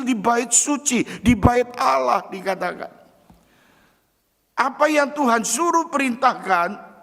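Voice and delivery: high, loud pulpit proclamation; full-force preaching. Acted. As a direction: preach it out to the whole hall. (khotbah berapi-api dengan suara tinggi dan keras)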